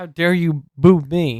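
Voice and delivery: play-acted super upset, offended angry yell, high, drawn out. Retelling a wrestler getting mad at the crowd: imitating someone angry. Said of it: "And he was getting mad".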